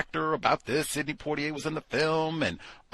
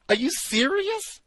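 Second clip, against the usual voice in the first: much higher, squeaking in disbelief; shocked disbelief; 4 dB louder than usual. Real, not acted. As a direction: shriek it, utterly incredulous. Bigger disbelief.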